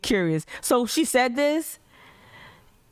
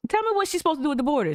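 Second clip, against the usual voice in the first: fast, higher demand; exasperated demand; 7 semitones higher, much faster than usual. Real, not acted. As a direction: push hard for an answer, quickly. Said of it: "demanding answer".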